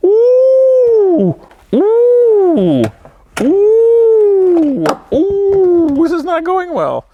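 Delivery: high, loud yelps of pain. Real, not acted. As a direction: squeal as it hurts. Squeezing into seat, hurting.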